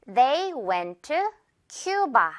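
very slow, "Cuba" drawn out as KYOO-ba; slow model sentence. Shown as a demonstration. Teacher gives an example to repeat, slow model with "Cuba" as KYOO-ba. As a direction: space the words out, ending on a stressed "Cuba". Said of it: "예문 갑니다".

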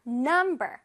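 "number" stressed on the first syllable, num. Shown as a demonstration. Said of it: "첫 번째 부분에 강세가 들어갑니다". ("number"의 첫 음절 num에 강세)

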